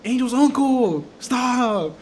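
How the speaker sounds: high-pitched imitation of mom calling out; mom intervening. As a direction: call out to stop him, as mom. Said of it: "my mom was like".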